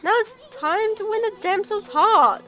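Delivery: hammed-up excitement. Reads game dialogue aloud in character.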